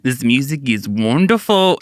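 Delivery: attempted Australian. Shown as a demonstration. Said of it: "No, I can't do it".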